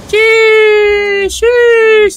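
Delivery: high, loud amazed sheesh; excited exclaim. Real, not acted. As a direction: hype it up. Big jump in game.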